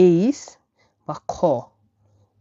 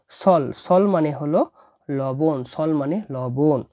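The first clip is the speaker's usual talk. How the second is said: 1 slow teaching; slower than usual. Shown as a demonstration. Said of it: "teacher repeating vocabulary slowly".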